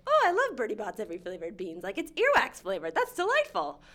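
a light hint of a jolly old wizard; goofy Dumbledore. Imitating a goofy Dumbledore raving about candy, lightly voiced. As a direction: lightly play him cheerful and goofy. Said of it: "lighthearted, goofy fellow that was like".

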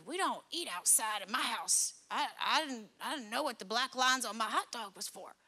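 lightly imitated kid explaining himself; baffled kid. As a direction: swoop the pitch like a confused child. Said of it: "And he goes".

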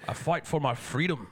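put-on Scottish accent, slow and drawn out; William Wallace. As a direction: declare it in a slow Scottish brogue. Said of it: "Think of William Wallace".

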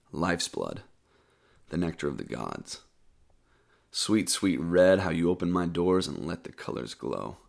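measured spoken-word reading with pauses; poem recitation. Acted. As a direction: recite your poem line by line, deliberately. Reads own poem aloud.

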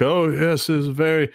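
shuddering NPC. Acted. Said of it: "He kind of shudders".

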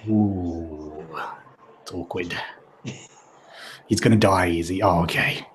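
low, soft, uncomfortable undertone; acted awkwardness. Onlookers learning the kid will die, mock awkward hush.

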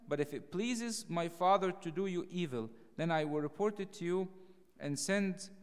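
preacher reading the Bible passage with full force; scripture reading. Acted. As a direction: proclaim the verses to the congregation. Reads scripture aloud.

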